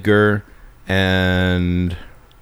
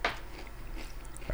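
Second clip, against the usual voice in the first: talking with a burning mouth; words pushed past hot-sauce burn; mouth burning from spicy food; 22 dB quieter than usual. Real, not acted. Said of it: "It's burning my mouth".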